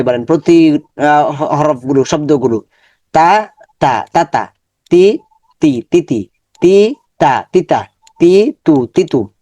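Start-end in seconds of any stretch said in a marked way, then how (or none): 3.1-9.3 syllables said apart, then joined into কালি repeated evenly; syllable blending drill. Shown as a demonstration. Teacher shows students how to join syllables. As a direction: build কা and লি into কালি for the class. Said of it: "এভাবেই সবগুলো হরফ".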